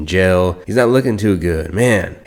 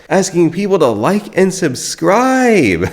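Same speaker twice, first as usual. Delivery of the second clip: laughing; 11 semitones higher than usual. Real, not acted. Laughing at Wes.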